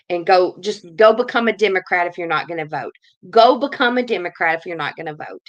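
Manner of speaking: loud, furious telling-off; angry shout. Real, not acted. Ranting vlogger shouting at non-voters, furious. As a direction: yell it at the people who won't vote.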